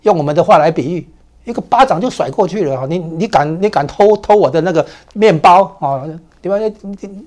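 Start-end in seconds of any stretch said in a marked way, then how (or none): 2.9-6.0 raised, loud mock scolding of a thief; angry retort. A bully scolding a petty thief, mock angry and loud. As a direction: snap at him as if he stole your bread. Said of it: "你气话嘛".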